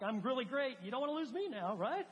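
lightly hammed-up boasting; mock self-important plea. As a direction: sell yourself to God, tongue in cheek. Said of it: "No, like".

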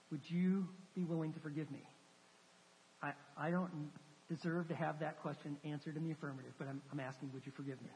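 low, hushed, hesitant retold plea; broken plea. Husband asking his wife to forgive him, broken and humbled. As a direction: plead softly, fading as you ask. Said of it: "in total brokenness".

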